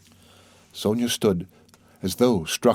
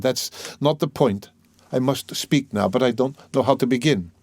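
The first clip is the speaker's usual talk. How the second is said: higher, halting confession; tormented man, self-accusing; 4 semitones higher than usual. Acted. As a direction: admit your faults with painful pauses.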